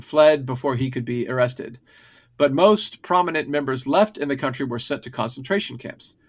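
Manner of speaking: steady scripted history read; reading aloud. Acted. Reads a prepared history script.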